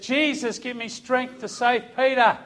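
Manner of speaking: high, urgent cry to Jesus; retold yell. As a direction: re-enact a yelled prayer, high but controlled. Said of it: "I yelled it out".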